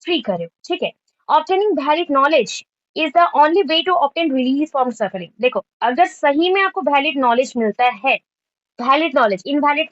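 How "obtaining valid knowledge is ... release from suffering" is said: slow, word-by-word dictation pace; teacher dictating the definition, slow and even. Shown as a demonstration. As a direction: read it out slowly for note-taking. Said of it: "dictating a definition slowly".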